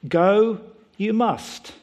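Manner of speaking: lightly voiced Yoda, a touch of a laugh; mild Yoda impression with a chuckle. Preacher imitating Yoda for his congregation. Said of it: "this is what he says".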